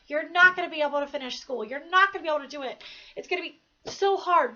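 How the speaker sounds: quick, insistent retelling of discouragement; mock naysayers. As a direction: quote the doubters with rising force. Voices the naysayers who doubted her.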